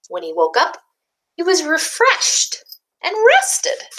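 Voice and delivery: put-on gentle picture-book narration for young listeners; storybook reading. A narrator's reading. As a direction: read it like story time for little ones.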